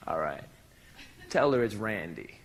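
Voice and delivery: Randy growling that she knows him; mock low tough guy.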